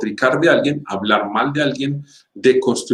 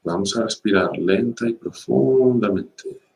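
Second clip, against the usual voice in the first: guided meditation. Acted. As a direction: ease listeners into breathing calmly. Leads a meditation.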